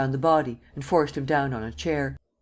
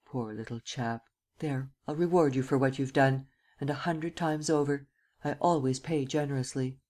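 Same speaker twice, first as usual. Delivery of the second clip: gentle; 4 dB quieter than usual. Acted. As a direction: speak softly over him. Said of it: "said gently".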